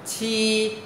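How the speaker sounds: "chi" with a puff of air, held high and level; aspirated sound. Shown as a demonstration. Teacher introduces the hard-to-read letter, aspirated sound. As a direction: push air through the teeth on "chi". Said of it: "hơi luồn qua khe răng".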